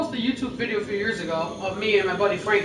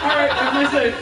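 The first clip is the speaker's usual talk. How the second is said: laughing imitation; 4 semitones higher, 3 dB louder than usual. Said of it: "He's like".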